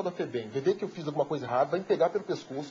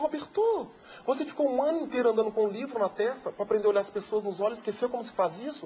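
higher, gently scolding madame; French madame; 4 semitones higher than usual. Retold or imitated. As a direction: remind him as the Frenchwoman, pitched up. (madame francesa, bronca suave e aguda)

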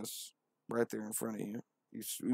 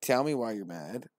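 higher, louder mocking divine voice; Lord as a bro; 4 semitones higher, 9 dB louder than usual. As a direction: tease him like a pushy god.

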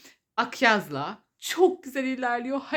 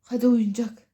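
high coaxing play voice; talking to a dog; 3 semitones higher, 3 dB louder than usual. Real, not acted. Inviting pet to play. (köpeği oyuna çağırır gibi)

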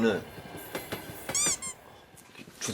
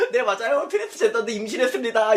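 laughing mock answer; 4 semitones higher, faster than usual. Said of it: "이럴 수도 없잖아".

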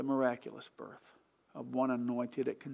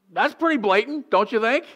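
hick voice carrying on; 9 semitones higher, 11 dB louder than usual. Retold or imitated. Comic voice carries on.

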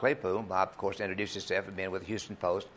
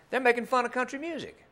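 upset complaint. Retold or imitated.

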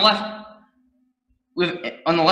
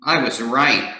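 smug low detective; 5 semitones lower than usual. Acted.

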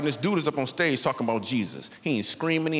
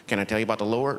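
creepy churchy voice; 6 semitones lower than usual. Retold or imitated. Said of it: "their voice change".

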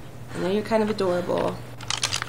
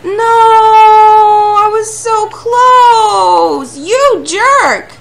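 high, loud, long-drawn howl of outrage; furious wail; 13 semitones higher, 16 dB louder, much slower than usual. Real, not acted. Gamer who was so close and lost it, furious wail. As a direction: wail it out, stretching the words. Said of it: "I'm so mad".

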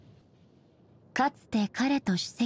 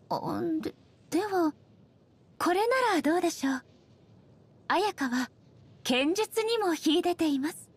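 flustered; 7 semitones higher than usual. Acted. Hastily offers a different verdict.

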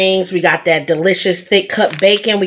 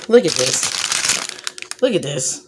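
hushed awe; 5 semitones lower, 6 dB quieter, slower than usual. Real, not acted. Hushed admiring the burger.

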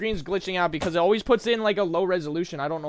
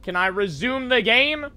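impatient asking; 6 semitones higher, 5 dB louder than usual. Real, not acted. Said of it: "repeats louder".

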